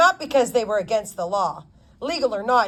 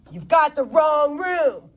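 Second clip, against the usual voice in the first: slow, louder gruff grumble; grumbling; 6 semitones higher, 3 dB louder than usual. Acted. Stubbs grumbling at the intruding lawyer, gruff. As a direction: grumble him off. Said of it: "grumbled Stubbs".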